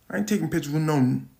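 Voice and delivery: loud, fast aggressive retort. Retold or imitated. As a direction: snap it back hard and fast. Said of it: "It was the aggressive style".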